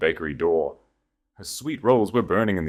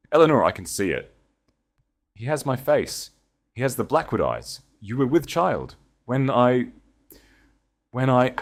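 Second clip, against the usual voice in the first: raised, pleading and breaking off; desperate; 7 semitones higher than usual. A narrator's reading. Duke pleading with Eleanor, desperate and higher. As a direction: beg her, choking on the words. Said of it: "The desperation in his voice was raw".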